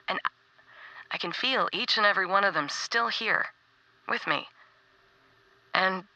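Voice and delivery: gentle heartfelt message to a friend; tender farewell. Acted.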